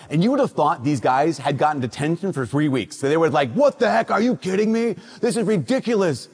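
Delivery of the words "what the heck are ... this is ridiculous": higher, hammed-up teen indignation; mock outrage. Teen boys protesting fresh cinnamon rolls, in hammed-up outrage. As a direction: play up the boys' fake fury, pitched high.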